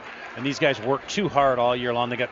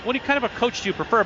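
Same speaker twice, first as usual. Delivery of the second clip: twang; 8 semitones higher than usual. Retold or imitated. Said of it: "But he said it with a twang".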